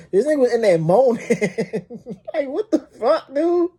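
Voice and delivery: excited. Real, not acted. Recounting the moaning, amused disbelief.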